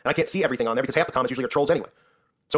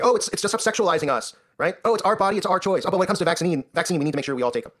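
mocking feminist voice. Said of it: "And this is what they're doing".

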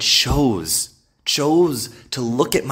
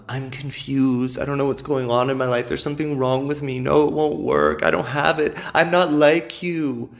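mock whiny self-doubt; 3 semitones higher than usual. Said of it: "in their little blanket of".

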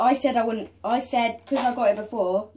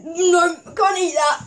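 eating gross jelly beans; 5 semitones higher, 5 dB louder, slower than usual. Real, not acted. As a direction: mouth full, slow and loud. Gross bean in mouth.

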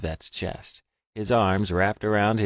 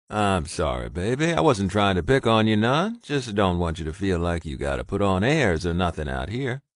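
reassuring apology; 3 dB louder than usual. Acted. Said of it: "Vet reassured his mate".

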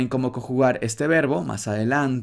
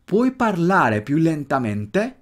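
connected Italian question, still measured and higher-pitched; more natural speed; 4 semitones higher, slower than usual. Shown as a demonstration. Teacher repeats the question for students at more natural speed. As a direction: run the words together, a little more naturally. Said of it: "ahora velocidad un poquito más natural".

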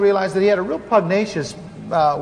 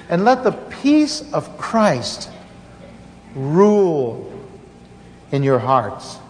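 scripture reading; 2 semitones lower than usual. Acted. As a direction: read the verses with solemn weight. Reads the scripture passage.

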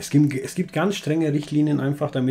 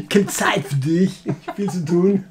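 spöttisch nachgeäfft; 5 semitones higher, 6 dB louder, slower than usual. Retold or imitated. Mocking JJ brushing him off.

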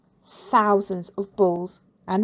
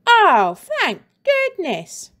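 put-on much higher, slow relieved boy; relieved exclamation; 10 semitones higher, 6 dB louder, much slower than usual. Freed boy exclaiming to teacher, high relieved voice. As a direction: sigh it out in huge relief. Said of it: "exclaimed Ronald".

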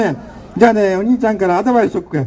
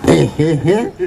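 put-on ugly girly voice; 2 semitones lower, much slower than usual. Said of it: "汚ねえ声じゃん".

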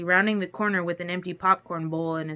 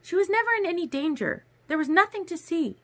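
put-on high, clipped young woman voice, cold; Alice, cold and exasperated; 10 semitones higher than usual. A narrator's reading. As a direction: coldly list every burden. Alice's voice again.

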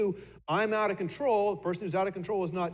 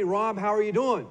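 a light, bright hello to Rob; casual friend asking after him; friendly greeting; 4 semitones higher, 5 dB louder than usual. Retold or imitated. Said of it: "So you say to me".

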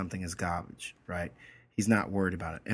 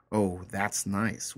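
sarcastic; much slower than usual. Acted. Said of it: "trying to be sarcastic".

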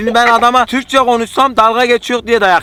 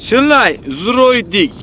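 backwards speech; much slower than usual. Pretend. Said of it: "düz konuşmayacağız".

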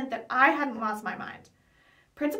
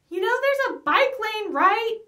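higher and louder yell after a passing man; 9 semitones higher, 8 dB louder, slower than usual. Acted. Eli yelling at a cyclist who ignored the bike lane, indignant shout. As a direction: call it out after him, indignant. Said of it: "Eli yelled at the man".

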